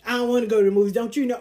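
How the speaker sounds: quick, petulant retort; mildly bratty comeback; childish refusal. Retold or imitated. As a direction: imitate a kid refusing, rushed. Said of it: "Like being a kid".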